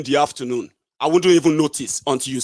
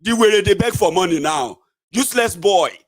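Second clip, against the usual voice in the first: mock jeering; 4 semitones higher than usual. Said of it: "those who are going to be laughing at me".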